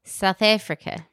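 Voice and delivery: demonstrating a put-on South African accent; amateur South African accent. Shown as a demonstration. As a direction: show off your shaky attempt at South African. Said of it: "Let me hear it".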